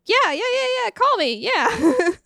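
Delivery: high-pitched fake enthusiasm; put-on eagerness. Confused woman turning it back on for him, put-on eagerness. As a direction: switch on the gushing, overkeen girlfriend act. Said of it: "has to turn it back on again".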